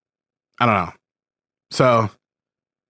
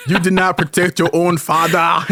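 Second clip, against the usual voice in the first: lightly voiced African accent, laughing through it; half-hearted African accent, breaking into laughter; mock African accent; 2 semitones higher than usual. Mom quoting the movie's rival king, laughing, in mock African accent. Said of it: "doing this accent the whole time".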